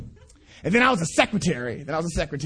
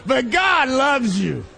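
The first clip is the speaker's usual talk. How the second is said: slow emphatic preaching; 4 semitones higher, 4 dB louder, slower than usual. Real, not acted. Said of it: "repeat of key line".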